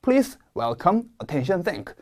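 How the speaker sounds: Please, welcome, attention, thank, each hit hard; slow, punch each word; each word stressed. Shown as a demonstration. Teacher modeling strongly stressed opening words. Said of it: "다시 한번".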